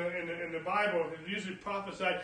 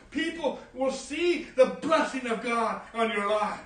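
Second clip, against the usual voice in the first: raised, emphatic sermon voice; forceful preaching; 8 semitones higher, 7 dB louder than usual. Real, not acted. Preacher warning the church against selfish blessing, forceful preaching. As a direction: press the point on the congregation.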